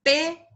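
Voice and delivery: "pera" with PE held and punched; stress on the first syllable. Shown as a demonstration. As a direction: lean on PE in "pera", then a light "ra". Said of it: "Acá yo dije pera".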